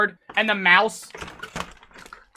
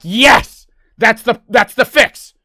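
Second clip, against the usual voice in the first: loud, raised-pitch elation; triumphant shout; 3 semitones higher, 7 dB louder, slower than usual. Retold or imitated. Streamer reenacting relief at finding the fix, triumphant shout. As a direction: burst out as if it's finally solved.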